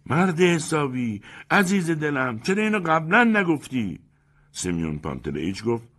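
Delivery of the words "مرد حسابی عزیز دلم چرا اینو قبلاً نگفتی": high, slow, fawning panic; embarrassed hurried apology; flustered anxiety. Acted. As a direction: backpedal nervously, flattering. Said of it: "با اضطراب و دستپاچگی گفت".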